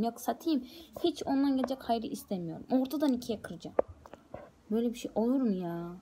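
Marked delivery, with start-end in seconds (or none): 2.7-3.8 hissed under the breath; whispered threat. Real, not acted. At the broken laptop, a whispered threat. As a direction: whisper the threat to snap it in half.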